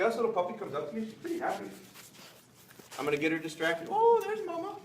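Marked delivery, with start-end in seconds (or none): 3.9-4.8 high, louder excited call; excited high lure. Real, not acted. Trainer pulling puppy's attention with an excited high call. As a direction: sound thrilled to see her.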